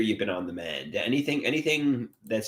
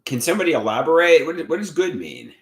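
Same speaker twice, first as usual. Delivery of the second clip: baffled; 7 semitones higher, 5 dB louder than usual. Real, not acted. Baffled questioning of chat.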